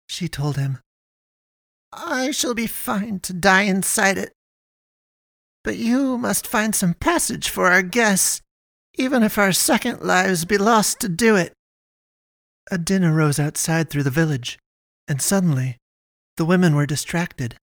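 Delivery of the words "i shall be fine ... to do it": put-on higher, measured old matriarch; resolute mother. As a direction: declare it with stubborn dignity.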